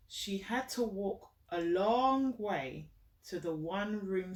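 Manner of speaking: slow, gentle storybook reading, each phrase set apart; reading to a child. Acted. Mother reading a picture book to her child, gentle storytelling. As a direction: read it out like a bedtime story for a little one.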